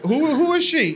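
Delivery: high-pitched, stammered question; imitating a bewildered preacher; mock baffled pastor. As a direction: ask it rattled, thrown by a heckler. Pastor baffled by heckling sister.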